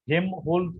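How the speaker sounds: হেমহোল্টজ said Hem-holtz, without L. Shown as a demonstration. Teacher telling students how to remember it, হেমহোল্টজ without L. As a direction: say হেমহোল্টজ with no L sound. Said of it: "এই হিসাবে এটাকে মনে রাখার চেষ্টা করবে".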